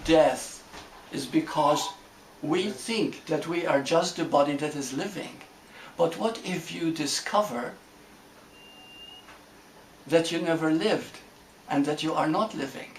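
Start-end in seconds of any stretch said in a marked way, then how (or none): 6.0-12.9 long pause after "discover", then "that you never lived"; deliberate pauses. Real, not acted. Teacher leaving room for the group to reflect, deliberate pauses. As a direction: let "discover" hang, then finish in measured phrases. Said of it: "I'm pausing here on purpose".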